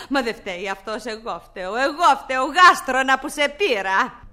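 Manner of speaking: mocking laugh through the words; wife laughing scornfully at husband and slave; scornful laughter. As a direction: sneer and laugh at them both.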